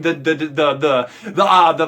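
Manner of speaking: stammering on the same word; stuttering. Real, not acted. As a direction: gets stuck repeating a word. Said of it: "I'm stuttering".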